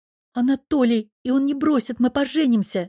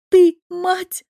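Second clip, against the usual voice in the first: furious shout, much higher and louder; explodes in anger; 10 semitones higher, 7 dB louder than usual. A narrator's reading. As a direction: daughter blows up at her mother. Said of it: "буквально взрывается она". (взрыв ярости, крик)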